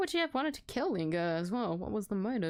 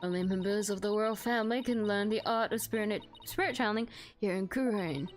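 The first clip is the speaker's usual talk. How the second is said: put-on old lady voice; 2 semitones lower than usual. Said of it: "old lady voice".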